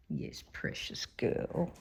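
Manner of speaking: tender whisper. Real, not acted. Softly petting the dog.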